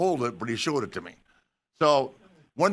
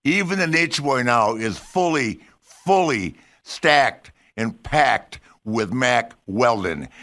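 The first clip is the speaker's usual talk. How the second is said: loud; 4 dB louder, slower than usual. Real, not acted. Loud ad-lib in ad read.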